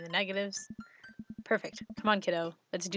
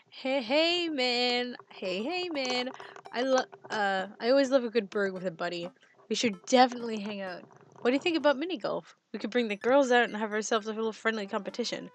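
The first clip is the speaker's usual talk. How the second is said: dude bro voice; 3 semitones higher than usual. Acted. Reading Brian's text aloud as Brian.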